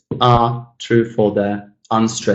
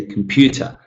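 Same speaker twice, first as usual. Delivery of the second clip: comPUter with a crisp PEW; clearly enunciated stress. Shown as a demonstration. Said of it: "more clearly".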